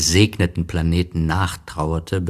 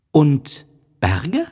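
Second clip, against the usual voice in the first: put-on high, admiring child voice; a boy marvelling at a planet; little prince; 9 semitones higher, 4 dB louder than usual. A narrator's reading. Little prince admires the planet and asks about oceans.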